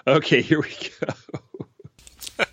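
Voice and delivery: slow, strained, catching breath; puffing after getting up. Pretend. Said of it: "catch my breath".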